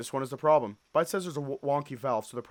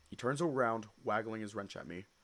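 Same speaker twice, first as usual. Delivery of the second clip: plain reading voice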